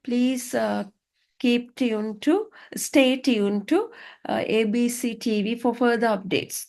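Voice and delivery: slow presenter sign-off. Shown as a demonstration. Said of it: "You can say".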